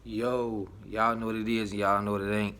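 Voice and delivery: muffled behind a mask; talking through a cloth mask; through a face mask. Real, not acted. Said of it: "Excuse the mask".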